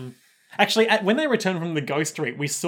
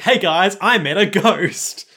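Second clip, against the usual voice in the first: eager Koichi; 4 semitones higher, 5 dB louder, slower than usual. Retold or imitated. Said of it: "Cut to Koichi being like".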